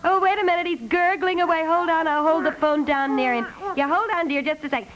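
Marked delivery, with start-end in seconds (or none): none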